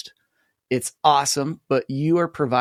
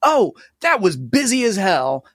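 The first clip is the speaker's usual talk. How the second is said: confused voice; 7 semitones higher, 4 dB louder than usual. Retold or imitated. Voicing a confused newcomer, then editor.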